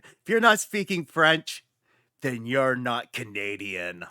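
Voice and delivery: emphatic French-Canadian declaration; French-Canadian accent. Acted. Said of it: "completely did a bad accent".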